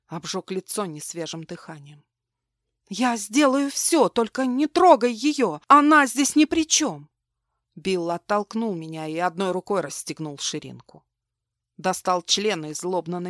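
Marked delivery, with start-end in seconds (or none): 2.9-7.1 медленно, громко и выше; умолять со слезами; отчаянная мольба. Acted. Мать умоляет за дочь. (громкая отчаянная мольба)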